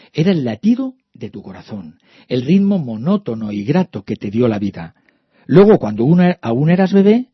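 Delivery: put-on gentle read-aloud for children. A narrator's reading. Reads the book's prose text.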